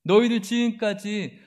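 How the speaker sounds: contemptuous mockery; mocking taunt. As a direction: sneer to shake their faith. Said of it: "라는 거예요".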